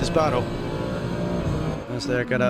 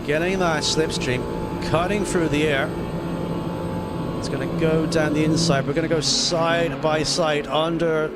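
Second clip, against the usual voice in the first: motorsport commentator. Acted. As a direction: lively race play-by-play. Live race play-by-play.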